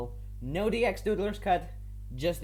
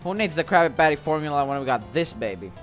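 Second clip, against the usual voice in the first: lightly voiced scheming villain. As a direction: gloat over the plan like a small tyrant. Reads Plankton's villain lines.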